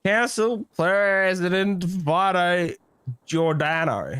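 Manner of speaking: slow, each word set down carefully; slow careful name. Shown as a demonstration. Recalling the council president's name at last, slowly. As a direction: spell the full title out slowly. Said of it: "That's it".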